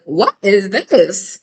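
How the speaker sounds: mock confrontational outburst, slow with pitch jumps; crazy aggressive. Narcissist starts yelling at you for nothing, mock aggressive. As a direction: imitate someone coming at you, drawn out. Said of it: "just coming at you crazy aggressive".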